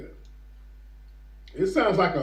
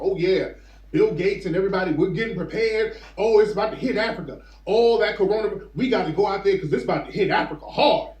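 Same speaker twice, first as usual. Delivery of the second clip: louder, hurried mock announcement; mock eager hype; 2 semitones higher, 4 dB louder than usual. Officials talking up what's about to hit Africa, mock eager hype. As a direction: imitate them hyping up the coming crisis.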